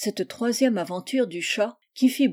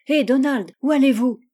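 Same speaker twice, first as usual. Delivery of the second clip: calling out; 4 semitones higher, 6 dB louder than usual. Acted. Charles calling out to Donald.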